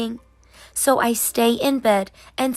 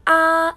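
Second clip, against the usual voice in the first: say ah; 6 semitones higher, 6 dB louder than usual. A narrator's reading. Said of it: "but I say".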